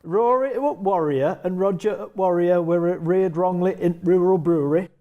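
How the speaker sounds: tongue twister in an attempted Yorkshire accent. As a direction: have a go at Yorkshire.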